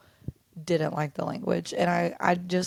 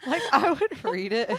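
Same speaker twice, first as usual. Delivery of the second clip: laughing while talking; 8 semitones higher, 3 dB louder than usual. Real, not acted. Laughing about Irish accent.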